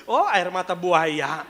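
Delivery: slow, laughing sneer; laughing mock. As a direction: drawl it while laughing. Mocking the crying man. (mengejek pelan sambil tertawa)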